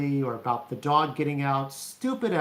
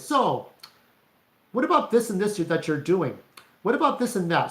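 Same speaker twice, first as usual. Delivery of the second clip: nosy, probing questions pitched up; prying sister; 4 semitones higher than usual. Retold or imitated. Sister interrogating her brother, mock prying tone. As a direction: quiz him like a suspicious interrogator. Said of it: "She would ask you questions".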